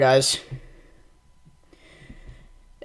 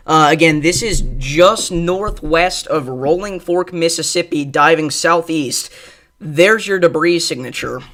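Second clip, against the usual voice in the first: breathless urgent update; out of breath, still gasping. Real, not acted. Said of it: "I gotta kinda catch my breath here again".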